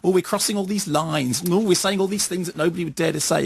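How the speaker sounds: lightly put-on smug, self-satisfied voice; a hint of preening, campy comic actor; Kenneth Williams. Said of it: "that was a good Kenneth Williams impression".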